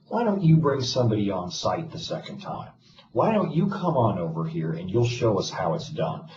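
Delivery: a blunt, lightly voiced demand to the vendor. Admin demanding the vendor come on site, mild blunt challenge. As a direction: imitate telling the vendor off, only mildly. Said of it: "I can't say it in that tone of voice".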